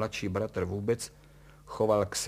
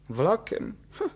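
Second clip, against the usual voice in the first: high, louder mocking question; 11 semitones higher, 5 dB louder than usual. A narrator's reading. Son jeering at his father's train plan, mocking. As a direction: scoff in a raised voice. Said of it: "posmíval se Tonda".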